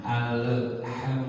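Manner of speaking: "alham" with the l bounced, said slowly; wrong alham. Shown as a demonstration. Teacher showing students the wrong reading, slow. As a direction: demonstrate "alham" with a wrong qalqalah on the l. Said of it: "nah itu salah".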